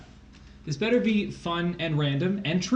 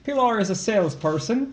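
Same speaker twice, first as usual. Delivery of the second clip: attempted Irish accent; 3 semitones higher than usual. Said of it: "I can try".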